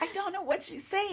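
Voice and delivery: high, soft, squeezed through laughter; laughing retold quote. Storyteller quotes baffled Rob, laughing. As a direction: quote it while trying not to collapse. Quoting friend while laughing.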